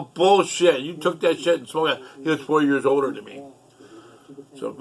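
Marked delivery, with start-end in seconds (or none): 0.0-2.0 loud, higher retold retort; angry disbelief. To brother who claims he flushed it, retold angry disbelief. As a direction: re-enact calling out a liar. Acted quarrel, accusing brother again.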